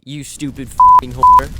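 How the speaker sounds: high, slow, furious screamed insult; screaming insult. Acted. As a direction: explode into a shrieking yell. Sudden insult at the viewer.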